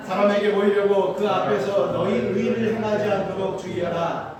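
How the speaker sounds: measured, solemn Bible reading; scripture reading. Acted. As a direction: read the verses slowly like a liturgy. Reads scripture aloud. (성경을 엄숙하게 낭독하듯)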